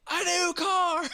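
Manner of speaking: high, loud prize shout; big reveal like a TV host; game show host. Retold or imitated. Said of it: "But when he said that".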